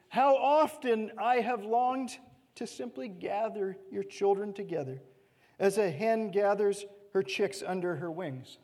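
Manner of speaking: lament. Acted. Jesus grieving over Jerusalem, a touch of sorrow. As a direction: mourn over the city as you read.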